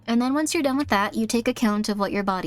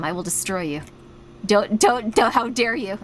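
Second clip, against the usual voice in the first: 1 mock threat. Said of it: "now I'm getting a little too into it".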